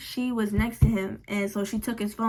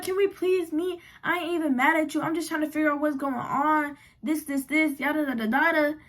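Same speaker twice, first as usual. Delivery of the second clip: put-on high, pleading girlfriend voice; 4 semitones higher than usual. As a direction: beg her to meet, a bit higher. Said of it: "She's like".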